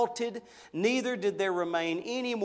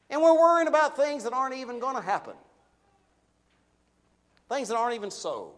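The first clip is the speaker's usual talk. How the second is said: rising urgency; 6 semitones higher, 6 dB louder, faster than usual. Real, not acted. Preacher building on fear.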